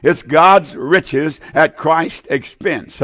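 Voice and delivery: very slow, each word weighed; slow, deliberate teaching delivery; slow, spelled-out definition. Shown as a demonstration. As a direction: dictate it slowly so they can note it. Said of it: "That's what grace is".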